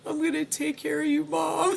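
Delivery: high, giggly quote of herself; laughing. Retold or imitated. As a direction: laugh through the promise. Quoting herself at twenty.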